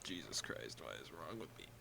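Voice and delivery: hiccups while talking; hiccuping. Real, not acted. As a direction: talk through hiccups. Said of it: "I'm, like, hiccuping like crazy".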